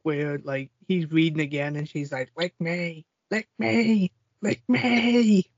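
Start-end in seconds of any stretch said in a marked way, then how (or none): 2.4-3.1 soft lick me. Retold or imitated. Acted raunchy quote from movie. 3.3-5.5 "lick me" climbing higher each time into a hammed-up cry; building mock moan. Acted raunchy quote from movie.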